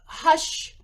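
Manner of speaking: slow hushing sounds; slow shushing demo. Shown as a demonstration. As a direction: hush the room gently. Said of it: "that hush, shh".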